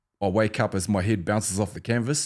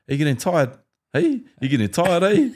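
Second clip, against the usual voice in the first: taunting; 7 semitones higher, 4 dB louder than usual. Retold or imitated. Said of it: "and I'm like".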